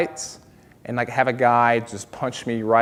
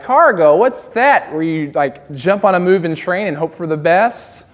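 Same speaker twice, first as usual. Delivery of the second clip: incredulous; 3 semitones higher, 4 dB louder than usual. Retold or imitated. Incredulous comeback.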